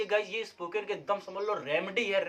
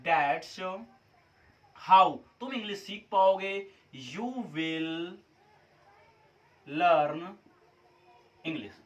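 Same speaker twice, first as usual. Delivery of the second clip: low, slow word-by-word English; slow dictation; 3 semitones lower, much slower than usual. Shown as a demonstration. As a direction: read it out word by word for copying. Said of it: "लगा दीजिए आप".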